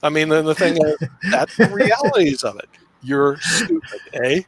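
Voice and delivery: light mock Canadian accent, eh. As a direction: tease in a hammed-up Canadian accent. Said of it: "You're doing Canadian accent".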